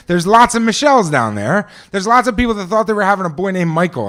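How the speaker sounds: ordinary talk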